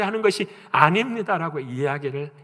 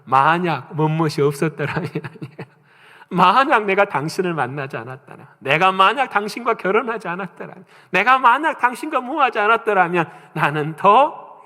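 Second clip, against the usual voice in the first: blaming spouse; 2 semitones higher, 4 dB louder than usual. Retold or imitated. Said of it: "그 탓하는 사람들의 특징을 보면".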